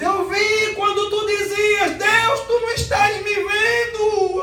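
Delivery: high, slow shouted prophecy with "Deus" held long; prophetic shout. Retold or imitated. Prophetess repeating his secret prayer back to him, high slow shout. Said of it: "repetia várias vezes".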